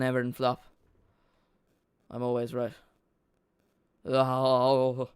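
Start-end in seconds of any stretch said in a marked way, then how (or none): 4.0-5.2 mock evil laugh. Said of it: "evil laugh".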